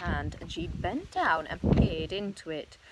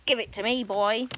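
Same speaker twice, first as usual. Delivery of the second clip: loud, higher demanding grandma; yelling; 3 semitones higher, 5 dB louder than usual. Acted. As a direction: bark the order at him. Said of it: "yelled Grandma".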